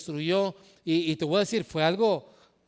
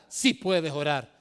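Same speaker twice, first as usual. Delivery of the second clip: lower, slower calm affirmation; reassuring answer; 4 semitones lower, slower than usual. Acted. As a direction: settle it gently. Answers own question. ("Sí puedes orar" más grave y lento, tranquilizador)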